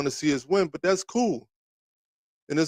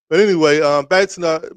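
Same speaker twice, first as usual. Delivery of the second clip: loud reset; 7 dB louder than usual. Real, not acted. Loudly returning to topic.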